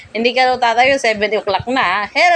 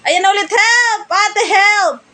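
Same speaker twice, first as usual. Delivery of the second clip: pretend cry for help; 8 semitones higher, much slower than usual. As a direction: cry out as if falling, all in fun. (malakas na kunwaring sigaw ng tulong)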